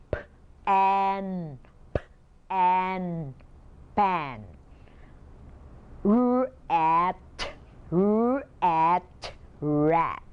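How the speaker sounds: p and r stretched, then blended into pan and rat; sounding out words. Shown as a demonstration. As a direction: blend each sound slowly into the word. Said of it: "blend up the sounds".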